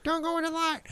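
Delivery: high, soft eerie warning; creepy medium voice. Retold or imitated. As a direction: whisper it like a ghostly medium. Quoting Poltergeist medium.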